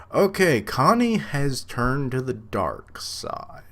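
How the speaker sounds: excited. Real, not acted. Reacting to Connie turning on Eren, a slow, excited high cry. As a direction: make it a big dramatic reveal.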